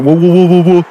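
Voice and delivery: high, loud panicky "whoa"s; mock freak-out. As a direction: overdo the alarm, hammed up. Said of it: "You went".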